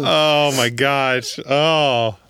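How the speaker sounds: high, slow groan of disbelief; mock groan. Real, not acted. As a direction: groan at the terrible joke. Groaning at a bad joke.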